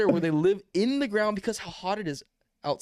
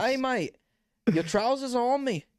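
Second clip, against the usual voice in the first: a higher, cartoonish Australian accent, hamming up "Hey, mate"; a goofy put-on Australian, Aussie stereotype; hammed-up Australian accent; 7 semitones higher than usual. Showing his friend a proper Australian accent, hammed-up Aussie voice. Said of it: "That's Australian".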